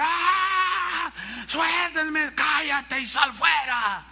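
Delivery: high mock shriek, then slow shouted commands; hammed-up struggling girl's scream. Pastor imitating the girl held down and the exorcists, mock screaming. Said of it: "la muchacha gritaba".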